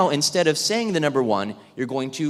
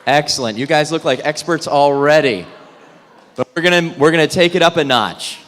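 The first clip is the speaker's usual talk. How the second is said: projecting to the room; 8 dB louder than usual. Real, not acted. Addressing whole room over chatter.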